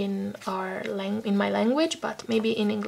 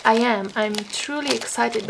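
a sudden louder "I am" despite a sore throat; insisting on excitement; 3 dB louder than usual. Real, not acted. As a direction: push it out to prove she means it. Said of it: "sorry if I don't sound that excited".

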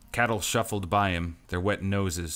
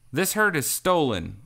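hissed; 8 semitones higher, 4 dB louder than usual. Acted. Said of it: "Lark hissed".

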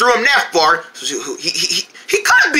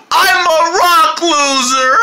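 crying; 6 semitones higher, slower than usual. Acted. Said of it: "Oh, don't cry".

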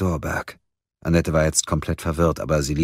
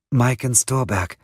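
high, slow, uncertain voice; suddenly unsure; 7 semitones higher than usual. A narrator's reading. Suspect corrects her name for the record, unsure. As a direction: say the name slowly, doubting it. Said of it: "schien sich plötzlich aber nicht mehr sicher zu sein".

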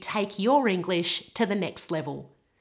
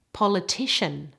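"Politician" with stress on the third part; third-syllable stress. Shown as a demonstration. Teacher shows the stress moving, third-syllable stress on "Politician". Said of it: "with excellent stress and vowels".

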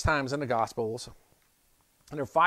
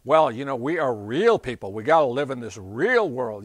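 worldly objection; 9 dB louder than usual. Acted. Voicing the worldly doubting voice.

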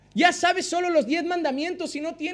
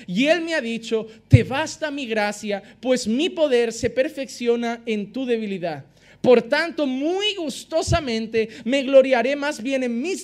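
scripture reading; 3 semitones lower than usual. Acted. Preacher reading Paul's words to the congregation, solemn scripture reading.

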